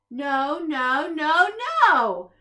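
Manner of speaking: building loud shouted no's; shouting. A narrator's reading. The group yelling at the gentle monster, building shout. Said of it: "shouted the group".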